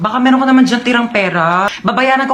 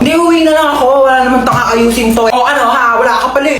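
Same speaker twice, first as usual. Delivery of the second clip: taunting shout; faster than usual. Acted. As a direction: pick a fight. Classroom fight taunts.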